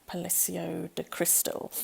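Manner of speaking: Spanish place name in an amateur Spanish accent; terrible Spanish accent. Real, not acted. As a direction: attempt a Spanish accent, not very convincingly. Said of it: "Excuse my terrible Spanish accent".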